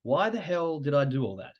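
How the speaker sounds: a squeaky, hammed-up "What?" then baffled; mock shock at your own trades; disbelieving outburst. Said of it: "you're like".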